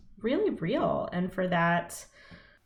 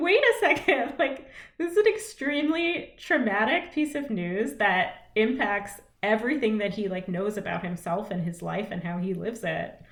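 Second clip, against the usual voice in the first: mock protest, pitched up; high mock voice; 3 semitones higher than usual. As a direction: squeak it out in protest. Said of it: "He's like".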